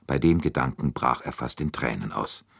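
ordinary delivery, nothing marked

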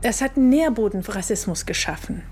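usual speaking voice

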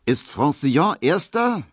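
high, loud eager call; impatient gambler asking loudly. A narrator's reading. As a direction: call out the question. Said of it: "rief er dann".

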